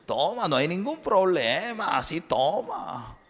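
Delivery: slow coaxing tempter voice; a hint of a sly tempter; tempting Satan. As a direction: coax them to drink, slow and sly. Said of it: "también Satanás".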